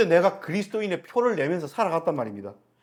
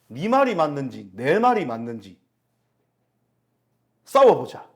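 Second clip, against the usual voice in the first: loud taunting dare, shouted out; louder mock challenge; 5 dB louder than usual. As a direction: throw down the challenge loudly. Preacher voicing challengers' taunt.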